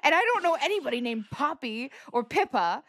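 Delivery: posh English voice. Retold or imitated. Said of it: "accusing her of being posh".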